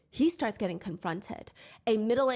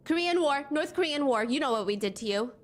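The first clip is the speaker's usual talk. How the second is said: higher, pushed mock taunt; retelling a jeer in a raised mock taunt; 4 semitones higher than usual. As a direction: imitate a jeering heckler. Retold taunt at Korean man.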